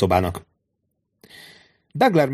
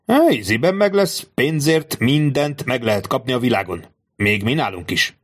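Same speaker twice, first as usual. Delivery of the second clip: jókedvű Peppino; 3 semitones higher than usual. Acted. Peppino boasts cheerfully.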